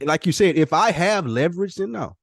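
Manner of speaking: rising excitedly toward a firm no. Real, not acted. Emphatic excited reply.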